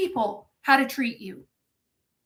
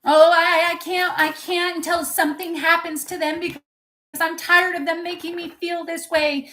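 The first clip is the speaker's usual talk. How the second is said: mock victim whine; 4 semitones higher than usual. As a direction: parody someone making excuses. Mocking a helpless victim's excuse.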